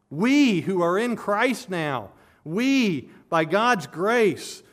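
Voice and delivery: slow, with "We" held and pushed; emphatic stress on We. Shown as a demonstration. Preacher contrasting believers with others, emphatic stress on "We". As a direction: land firmly on each "We". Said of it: "It's emphatic".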